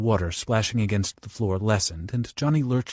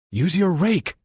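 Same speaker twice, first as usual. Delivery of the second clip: higher, louder call; 9 semitones higher, 5 dB louder, slower than usual. Acted. Johnny calls instructions to Bobby, loud. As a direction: call it through the wall. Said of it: "Johnny called".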